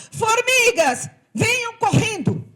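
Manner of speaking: shouted high call to the colony; a loud summons across the anthill. Acted. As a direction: yell for everyone to come running. Ant calls the other ants.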